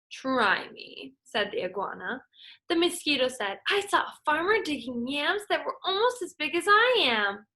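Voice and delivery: lively storybook read-aloud for a class; teacher reading a folk tale aloud; story reading to children. Acted. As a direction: read it like story time, voicing every animal. Reads picture book to class.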